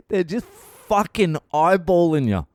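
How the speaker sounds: high-pitched, breaking out of a laugh. Real, not acted. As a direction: crack up while telling it. Cracks up telling the story.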